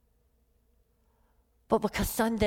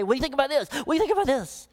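higher-pitched mock eager asking; eager questioning; 4 semitones higher, much faster than usual. Preacher retelling his calls to people yesterday, eager questioning. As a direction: imitate yourself pestering people for opinions.

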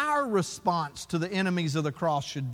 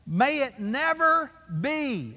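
slow, drawn-out emphasis on "May it never be"; emphatic; 3 semitones higher, 3 dB louder, slower than usual. Retold or imitated. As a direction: quote it as an emphatic exclamation, slowly. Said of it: "Emphatic. He's emphatic about this".

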